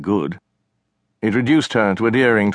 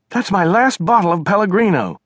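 higher, louder aggrieved complaint; indignant sister; 11 semitones higher, 4 dB louder than usual. Acted. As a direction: protest the stolen water, annoyed. China complains to brother.

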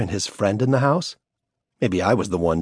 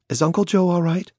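put-on higher child's voice, rising in fear; a scared daughter pleading for answers; frightened little girl; 11 semitones higher than usual. A narrator's reading.

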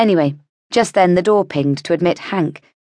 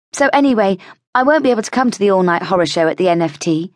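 a higher, quick chatty voice for the heroine; heroine's lively voice; 3 semitones higher, faster than usual. Acted. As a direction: toss it off casually, a bit fast.

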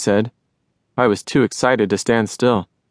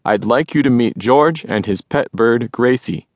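loud voice. Acted. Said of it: "Crow said in a loud voice".

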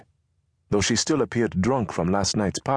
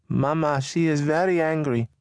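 put-on higher boy voice; 9 semitones higher than usual. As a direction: report as the boy. Boy answers.

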